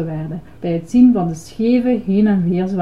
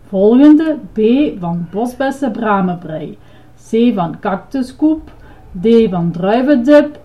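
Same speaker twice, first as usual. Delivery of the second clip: droning recital; 3 dB louder than usual. A narrator's reading. Ice-cream man lists flavours, droning them out. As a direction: proudly reel off a list. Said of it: "dreunde Grover".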